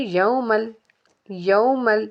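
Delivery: यौमल with a light, thin l at the end; यौमल, l not sounded separately; thin laam. Shown as a demonstration. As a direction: keep the l of यौमल light and joined to the word. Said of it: "लाम को बारीक पढ़ेंगे".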